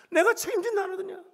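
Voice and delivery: high-pitched insistent question; imitated divine reproach, pitched high; insistent quote. Quotes God insisting, repeated more forcefully.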